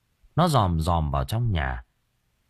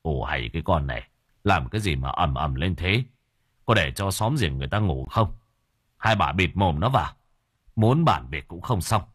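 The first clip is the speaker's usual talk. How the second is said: mild scolding. Acted. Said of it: "mới mắng".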